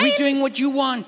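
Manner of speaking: David protesting angrily to God; angry protest. Retold or imitated. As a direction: insist you did what God asked. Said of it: "He's angry, like".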